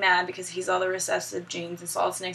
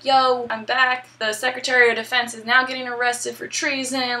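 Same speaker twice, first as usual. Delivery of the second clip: lightly acted upbeat colonel, louder; a touch of swaggering comeback; mock triumphant return; 4 semitones higher, 4 dB louder than usual. Acting out Colonel's triumphant return call.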